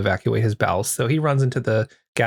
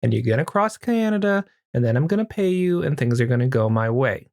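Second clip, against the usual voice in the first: raised-pitch mock threat at gunpoint; a lightly voiced gun-toting boss, higher; threatening woman; 6 semitones higher than usual. Woman with a gun forcing the men, mock threatening. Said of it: "comes up with a gun and says".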